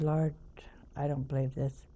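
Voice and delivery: soft whispered "Lord, I don't believe this"; whispered exasperation. Retold or imitated. Nun complaining to the Lord, whispered. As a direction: mutter it under your breath. Muttered prayer of frustration.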